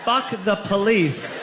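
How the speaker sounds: slow, chanted shout; mock yell. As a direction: yell it in the cop's face.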